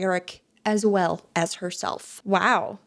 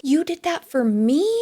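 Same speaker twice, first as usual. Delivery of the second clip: excited mock quote; 4 semitones higher than usual. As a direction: imitate excited surprise, pitch lifted. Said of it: "Eric responds by excitedly saying".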